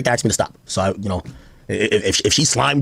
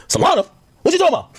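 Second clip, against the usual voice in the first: confused surprise; faster than usual. Retold or imitated. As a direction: act out being baffled. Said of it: "retelling his own reaction".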